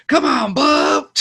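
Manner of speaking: high, drawn-out battle yell; Hush. Retold or imitated. Fan quoting a fight with the Trekkies, mock battle cry. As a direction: imitate a movie fighter's challenge, loud and stretched. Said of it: "he pulls out and he goes".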